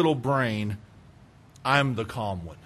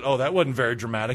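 fast teasing quip; faster than usual. Retold or imitated. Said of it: "she said".

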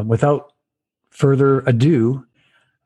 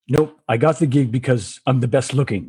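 put-on light South African accent; Anton, South African accent. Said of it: "in that South African accent".

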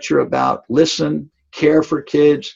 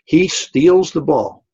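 slow, emphatic, higher and louder; excited emphasis; 5 semitones higher, 5 dB louder, slower than usual. Retold or imitated. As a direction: relive the big steal, drawing it out. Dramatic comeback moment retold.

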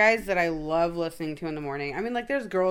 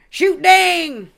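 "Shoot dang" in a full hick twang, much higher and louder; 11 semitones higher, 14 dB louder than usual. Retold or imitated. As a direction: belt it out like a loud country hick. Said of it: "that weird fucking hick voice".

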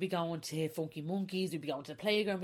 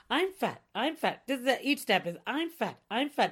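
inner critic; 6 semitones higher, 5 dB louder than usual. Retold or imitated. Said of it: "I'm going".

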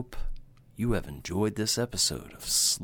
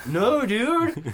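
a much higher, louder laughing no; shocked protest; 12 semitones higher, 7 dB louder than usual. Real, not acted. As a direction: yelp it out in mock outrage. Shocked by cohost's joke.

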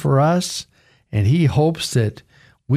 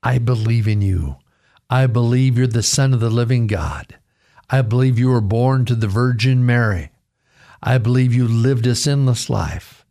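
altar call prayer; 3 semitones lower than usual. Real, not acted. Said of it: "today say, Lord, come into my life".

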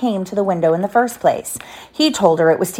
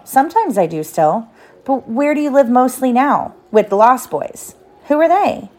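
put-on lively read-aloud to a child; story narration; 2 semitones higher than usual. A narrator's reading. Parent reading Peter Pan aloud to a child, story narration. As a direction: tell it like a bedtime storybook.

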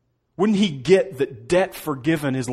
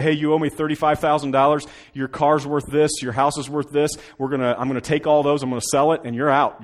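loud, blunt creditor king; king seizing the house, lightly voiced; demanding king; 3 semitones higher, 5 dB louder than usual. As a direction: lay down the debt, firm.

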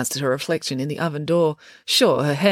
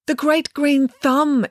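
grand, slow, high, louder proclamation; exclamation; 11 semitones higher, 4 dB louder, much slower than usual. A narrator's reading. Mayor proudly exclaims the festival title to Dad. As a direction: announce the title as a grand honour. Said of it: "exclaimed the mayor".

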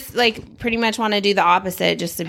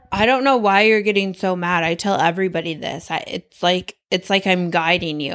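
mock lecturing husband, lower voice; imitated husband's tone; 3 semitones lower than usual. Husband telling wife he's guiding her, imitated lecturing tone. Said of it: "it's your tone of voice".

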